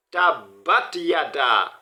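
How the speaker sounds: slow, long vowels in "tabat yada"; drawn out. Shown as a demonstration. Teacher drawing out the long vowel for students. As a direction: stretch "tabat yada" slowly. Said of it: "Il faudrait tirer".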